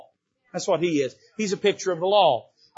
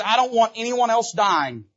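higher, louder insistence; emphatic louder repeat; 5 semitones higher, 3 dB louder than usual. Acted. David insists no one dies, louder and emphatic. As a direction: press the point home. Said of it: "He says".

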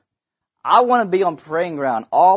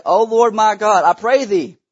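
slow, raised, fervent plea; crying out to God; 3 semitones higher, 5 dB louder than usual. Acted. Prophet praying over the child, crying out. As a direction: cry out in prayer, drawing it out. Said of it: "cried unto the Lord and said".

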